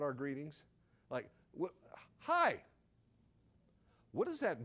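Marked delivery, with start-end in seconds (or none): 2.2-2.6 high, falling "Hi"; casual greeting. Acted. Preacher mimics our empty greetings, high chirpy hello. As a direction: pop "Hi" up high and let it drop.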